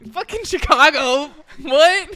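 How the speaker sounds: loud, hammed-up tough-girl outburst; a friend playfully imitates her yelling at a rude stranger; mock yell. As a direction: bellow it like a brawler picking a fight. S1 acts friend yelling back.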